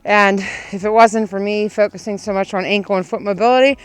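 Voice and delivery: talking while running, loud. Real, not acted. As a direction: speak mid-stride on a run. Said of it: "I literally cannot run any faster".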